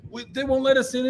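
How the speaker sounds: high, helpless mock complaint; high-pitched retold whine; retold pleading protest. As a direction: imitate someone pleading their excuse. Band protests to Fletcher.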